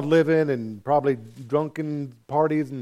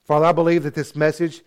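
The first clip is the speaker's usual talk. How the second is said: earnest pastoral prayer voice; closing prayer. Acted. A pastor prays over his congregation, sincerely.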